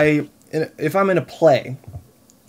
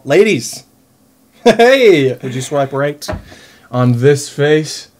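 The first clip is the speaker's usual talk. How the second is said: flirty; 5 dB louder, slower than usual. Acted. Flirting at viewers on Tinder.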